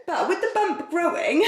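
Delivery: words broken by a giggle; giggly aside to viewers; laughing through it. Real, not acted. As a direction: say it while laughing. Giggling over her bump.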